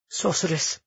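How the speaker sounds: gently. A narrator's reading. Olivia gently addressing Lucia, soft and careful. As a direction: say it softly, coaxing. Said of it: "Olivia said gently".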